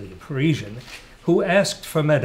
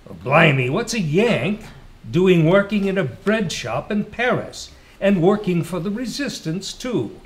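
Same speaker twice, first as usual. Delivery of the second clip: higher, louder British exclamation; an amazed Brit firing off questions; surprised British pilot; 6 semitones higher, 3 dB louder than usual. A narrator's reading.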